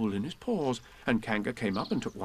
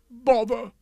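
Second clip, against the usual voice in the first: grumpy; 11 semitones higher, 7 dB louder than usual. Acted. King annoyed.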